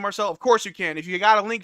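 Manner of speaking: usual speaking voice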